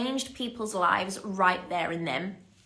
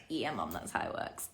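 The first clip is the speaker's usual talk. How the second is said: low, soft offhand reply; answering mum, low and quiet, offhand; matter-of-fact; 13 semitones lower, 11 dB quieter than usual. Retold or imitated. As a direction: shrug it off, much lower and quieter. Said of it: "And I'm like".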